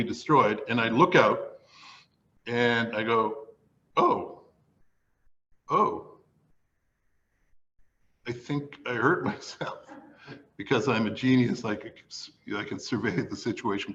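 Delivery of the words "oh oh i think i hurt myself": stunned, barely able to say it; dazed whimper. Retold or imitated. Storyteller dangling from trellis, faint pained whisper. Dazed after arm injury.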